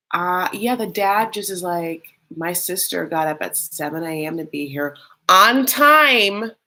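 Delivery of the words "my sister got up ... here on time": mock scolding. Imitating the dad berating him for being late, mock scolding. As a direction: scold like a fed-up dad, punching key words.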